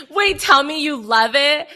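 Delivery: high, eager urging; drawn-out, thrilled plea; excited. Real, not acted. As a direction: beg excitedly for the verdict. Eager to hear friend loved show.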